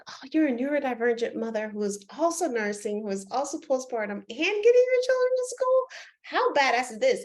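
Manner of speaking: rising to a high, delighted pitch; cheering her on. Retold or imitated. Coach retelling how she praised the client, high and excited. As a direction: hype her up like she's amazing.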